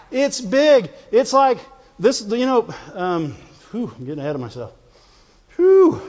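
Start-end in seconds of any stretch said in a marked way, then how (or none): 5.6-6.0 excited whoop. Real, not acted. Excited outburst.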